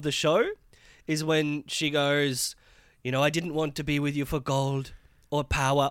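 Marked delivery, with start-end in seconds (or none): 3.2-5.9 a light mock French accent on the quote; imitating a French accent. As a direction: put on a hint of French accent for her line. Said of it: "is she doing a French accent?".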